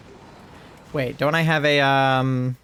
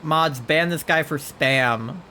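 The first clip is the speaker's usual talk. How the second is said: mock stern order; 3 semitones higher, slower than usual. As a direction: call the mods in playful outrage. Jokingly calls mods on Charlie.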